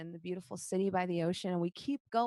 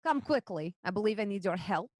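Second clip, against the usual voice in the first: urgent call for help, raised pitch; 3 dB louder than usual. Acted. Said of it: "very familiar voice call out".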